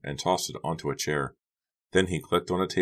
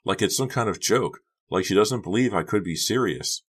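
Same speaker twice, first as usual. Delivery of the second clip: upset; 4 semitones higher, 3 dB louder than usual. Acted. Becca upset about Honey.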